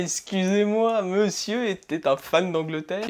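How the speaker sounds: slow French with a put-on English accent; mock English accent. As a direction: play at an English accent, drawing the words out. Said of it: "On va rester avec l'accent anglais". (faux accent anglais, en traînant)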